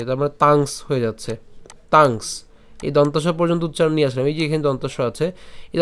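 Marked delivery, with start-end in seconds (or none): 0.4-2.3 "তাংস" as tang closed with an s; added final s. Shown as a demonstration. Teacher attaching the s to tang, "তাংস" in one syllable. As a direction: say "তাংস", ending ng straight into s. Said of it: "তাংয়ের সাথে আমরা দন্তাস্বকে নিয়ে আসছি".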